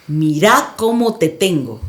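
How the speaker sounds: lightly voiced sinister presence, low and slow; a hint of a deep demonic taunt, drawn out; deep menacing voice. The unseen voice taunting the frozen woman, slightly deep and slow. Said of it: "una voz muy grave".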